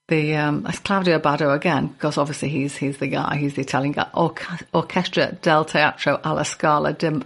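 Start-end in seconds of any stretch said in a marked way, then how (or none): 4.1-7.2 Scouse accent. Real, not acted. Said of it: "I said that in a very Scouse accent".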